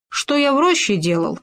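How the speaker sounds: high, thin squeak of a scared little creature. A narrator's reading. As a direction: squeak it up high, caught off guard. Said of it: "пропищал он".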